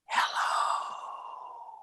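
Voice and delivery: whispered, drawn-out hello. Shown as a demonstration. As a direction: whisper it slowly on pure breath. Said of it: "all we have to do is whisper".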